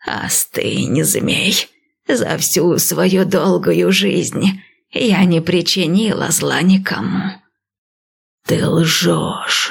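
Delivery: slow, lightly voiced old priestess; calm old seer, unhurried; old woman voice.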